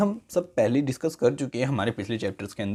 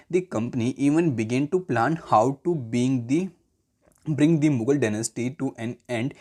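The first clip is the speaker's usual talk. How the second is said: slow, measured classroom reading; textbook read-aloud; much slower than usual. Real, not acted. Teacher reading the history textbook to students, measured read-aloud. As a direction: read it out word by word, deliberately.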